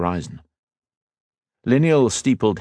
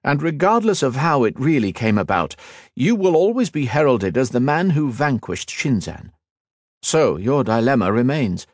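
raised, urging and admiring; urging elf lord; 6 semitones higher than usual. Acted. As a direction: urge him to lead, warmly. Liniel counsels.

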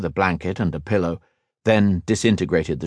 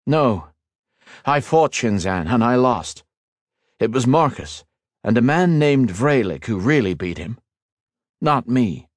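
put-on raised, earnest young hero; 4 semitones higher than usual. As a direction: explain it gravely and kindly. Ethan corrects.

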